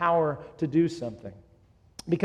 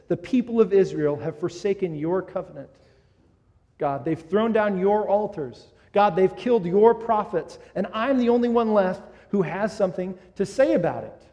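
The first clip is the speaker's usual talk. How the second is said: louder, building indignant protest to God; angry complaint; 4 semitones higher, 7 dB louder than usual. Retold or imitated. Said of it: "And so Elijah's angry".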